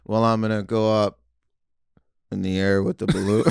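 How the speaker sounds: lightly imitated half-asleep magician; drowsy mock delivery with a long pause; David Blaine. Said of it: "half asleep".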